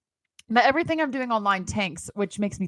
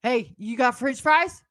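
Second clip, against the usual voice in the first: put-on slow, slurred drunk asking; hint of a sloppy drunk; drunk character; 3 semitones higher, slower than usual. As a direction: play yourself drunk, drawing it out. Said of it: "I'm gonna get into character".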